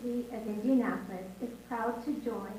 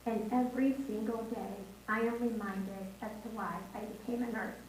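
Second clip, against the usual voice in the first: hoarse, fading voice; losing her voice mid-speech. Real, not acted. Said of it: "I'm losing my voice here".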